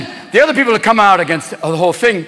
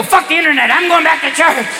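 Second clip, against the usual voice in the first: higher, excited declaration; eager kid; 7 semitones higher than usual. Acted. Kid won over by samba nuns, high eager cry. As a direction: blurt it out, drawing out the end. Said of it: "your kids will go".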